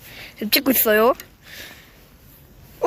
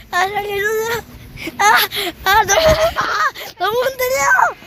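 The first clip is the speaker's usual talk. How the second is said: scared crying. Real, not acted. Swaying on ride, begging for help.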